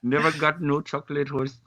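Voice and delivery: fumbling attempt at a French-Canadian accent; badly faked French accent, feeling for the words. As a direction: try and fail at a French accent. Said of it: "None of us can do a French accent".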